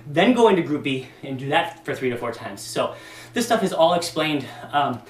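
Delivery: winded after exercising; out of breath. Real, not acted. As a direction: talk while catching breath. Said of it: "I'm a little out of breath".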